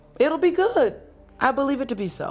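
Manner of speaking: high, fast, mock-solemn voice, like a sage.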